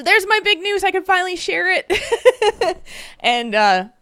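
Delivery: high, teary laugh through the news; laughing and crying at once; emotional, near tears. Real, not acted. Sharing her big news with the chat, laughing through tears. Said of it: "sorry, it's emotional".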